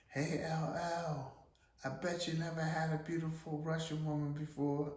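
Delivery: put-on a forward woman shouting in a thick Russian accent; harsh Russian accent. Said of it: "She has a real harsh accent".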